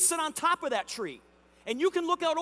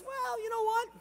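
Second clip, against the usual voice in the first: sceptical neighbor; 10 semitones higher than usual. Retold or imitated. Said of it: "your neighbor looks at you and says".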